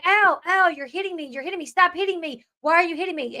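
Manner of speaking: high yelping ow, ow, lightly imitated; mock pained cry. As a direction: imitate his pained pleading, half-hearted. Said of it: "We heard him say".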